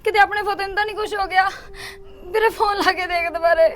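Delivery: speaking through tears; frightened mother, near sobbing; crying. Acted. Sister telling her brother about the call, crying.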